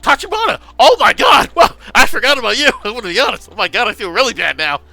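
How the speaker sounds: high, loud shriek of sudden recognition; shocked recognition. Real, not acted. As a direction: shout it out, aghast at having forgotten him. Shocked recognition of forgotten character.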